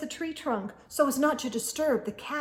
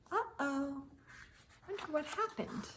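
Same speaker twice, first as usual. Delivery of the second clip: worried whisper; 4 semitones higher, 13 dB quieter than usual. Acted. Reader reacts to missing caps.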